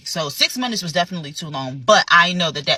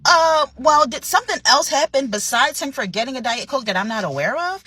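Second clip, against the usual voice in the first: incredulous; 6 semitones higher than usual. Retold or imitated. Manager's incredulous reply.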